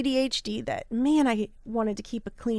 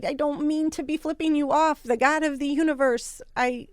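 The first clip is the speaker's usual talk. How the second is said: reliving a desperate prayer to God; pleading prayer; 4 semitones higher than usual. Retold or imitated. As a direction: beg God for help. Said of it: "I walked away going".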